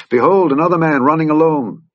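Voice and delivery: calls high down to the porter; calling out. Acted. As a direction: shout the news from the wall. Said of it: "the watchman called unto the porter".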